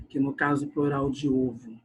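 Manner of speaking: ordinary talk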